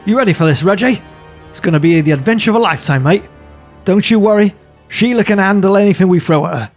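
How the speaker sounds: put-on high, loud, eager young Australian; pumped up for takeoff; excited Aussie pilot. Pilot rallies his partner before takeoff, excited.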